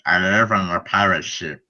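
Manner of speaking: saying it while holding the tongue; tongue held, words come out mangled; holding tongue with fingers. Shown as a demonstration. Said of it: "Hold your tongue and say".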